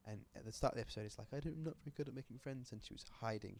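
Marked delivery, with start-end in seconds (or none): 1.3-2.7 lightly voiced shy little dog, quick and soft; little nursery dog. Storyteller voices a nursery puppy, small and soft. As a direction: say it small and quick, a bit higher. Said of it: "it's this little dog who's at nursery".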